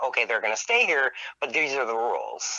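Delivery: ordinary talk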